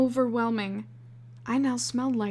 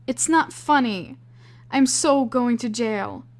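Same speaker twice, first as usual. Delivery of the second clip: upset; 2 semitones higher, 6 dB louder than usual. Acted. Upset at laughing friend.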